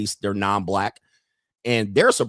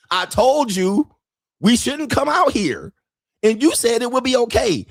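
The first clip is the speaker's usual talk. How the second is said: exasperated blame; 10 semitones higher than usual. Retold or imitated.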